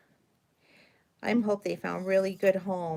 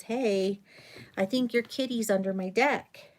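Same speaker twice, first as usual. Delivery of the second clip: neighbour's voice; 5 semitones higher than usual. Retold or imitated. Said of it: "and she goes".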